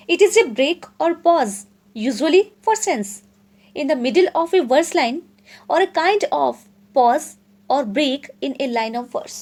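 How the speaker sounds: slow, deliberate definition read for notes; slow dictation reading. Acted. Teacher dictating a definition to students, slow and deliberate. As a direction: spell it out slowly so students can write. Reads English definition slowly aloud.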